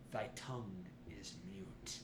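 low, hushed ominous decree; solemn low pronouncement. Acted. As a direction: intone it like a curse.

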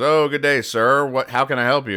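postal clerk. Retold or imitated. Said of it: "the lady working behind the desk goes".

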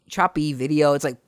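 usual speaking voice

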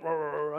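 imitated worked-up "rah-rah" noise; rolling, wordless mock rant; mock offended ranting. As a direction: mimic someone blustering in offence. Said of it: "really offended".

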